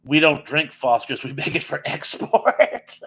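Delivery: imitating an amused Australian customer; imitated laughing. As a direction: break into a laugh on the last word. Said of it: "he starts laughing".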